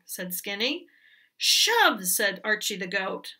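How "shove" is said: high shove. Acted. Goat urges the hen.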